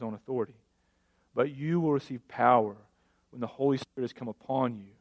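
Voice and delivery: measured, solemn Bible reading; scripture reading. Acted. Pastor reading Acts to church, measured reading. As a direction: read the passage steadily to the congregation.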